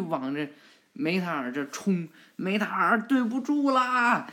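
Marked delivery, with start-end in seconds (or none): 2.4-4.3 roep het terwijl je aanvalt; battle cry apology. Acted. Boruto charges with fist.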